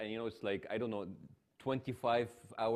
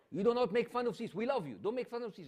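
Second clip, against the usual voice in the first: put-on stern older woman; 12 semitones higher, 4 dB louder than usual. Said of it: "And it's like".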